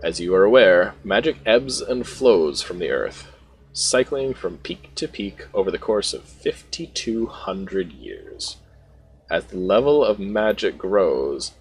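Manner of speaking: lightly acted deliberate delivery, pausing between phrases; slow, savored words. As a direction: take your time, relishing each word a little. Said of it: "He takes his time, accentuating each word".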